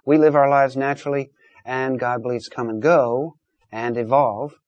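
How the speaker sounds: ordinary talk, nothing marked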